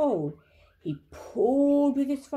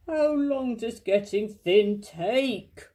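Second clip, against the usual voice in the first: anxious; slower than usual. A narrator's reading. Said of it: "asked Pooh anxiously".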